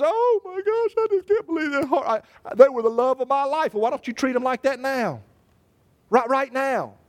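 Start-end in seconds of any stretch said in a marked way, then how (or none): 0.0-3.7 mock grief.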